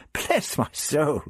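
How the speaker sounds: put-on slow, high, old-fashioned astonishment; shocked exclamation. A narrator's reading. The Doctor denies there was any row, exclaiming. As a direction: exclaim with drawn-out mock innocence. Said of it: "the doctor exclaimed".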